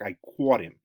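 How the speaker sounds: New York "caught" with a rounded "aw"; New York accent. Shown as a demonstration. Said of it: "Or New York".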